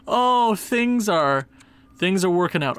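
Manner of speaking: breathless after yelling; panting between words; out of breath. Real, not acted. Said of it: "now I'm out of breath".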